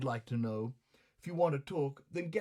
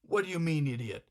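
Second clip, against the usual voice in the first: yelling; 3 semitones higher than usual. Acted. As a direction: bark back at her. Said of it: "I'm yelling at you".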